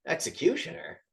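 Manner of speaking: Executioner? asked with a rising, puzzled tune; puzzled question. Retold or imitated. Gang boss hearing the title, puzzled and rising. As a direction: ask it like the word baffles him. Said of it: "it cuts to the boss and he goes".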